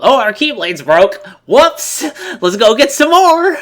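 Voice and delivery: high, bouncy mock-cheerful voice, rising to a squeal on Whoops; mock cheerful hero. Mocking the game's heroes, in a chirpy cartoon voice. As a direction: lampoon a carefree cartoon hero. Mocking how easily weapons get replaced.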